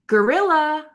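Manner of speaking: gorilla with a stress on the start; one of several takes of gorilla. Shown as a demonstration. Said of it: "you can split the difference".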